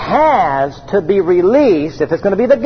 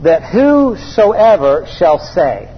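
word by word, deliberately slow; very slow reading; slower than usual. Shown as a demonstration. Preacher walking the congregation through a verse, very slowly. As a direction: take the verse slowly, phrase by phrase. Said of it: "Let's go very slowly here, word by word, phrase by phrase".

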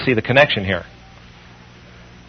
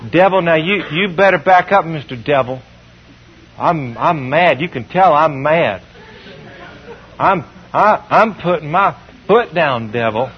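wimpy prayer. Retold or imitated. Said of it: "What a wimpy way to pray".

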